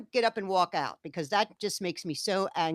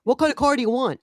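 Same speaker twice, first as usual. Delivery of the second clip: quoting husband; 6 semitones higher, 8 dB louder than usual. Retold or imitated. Hal asks her at dealership.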